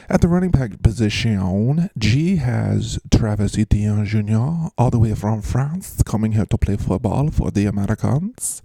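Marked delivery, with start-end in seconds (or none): 2.0-8.6 lightly put-on French accent; a hint of a French accent, slowed on the name. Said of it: "we went into a strange accent there".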